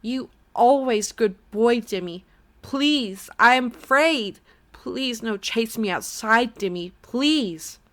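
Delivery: high, loud, frightened begging, slowing to a plea; a mother's voice begging her son not to cast her out, tearful; tearful pleading mother. A narrator's reading. Frightened, tearful mother begging her son. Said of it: "grew frightened, grew tearful".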